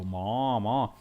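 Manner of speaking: imitated cow moo, drawn out; lazy, stretched cow call. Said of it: "What sound does a cow make?".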